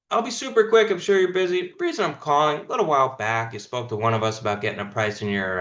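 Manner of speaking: brisk upbeat phone pitch, lightly played; cold caller reading the hook fast to a homeowner; demo sales pitch. Shown as a demonstration. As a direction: rattle through the pitch without pausing. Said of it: "which is this".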